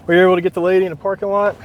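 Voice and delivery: slightly winded, quick words; out of breath. Real, not acted. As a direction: talk while catching your breath. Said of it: "I'm out of breath".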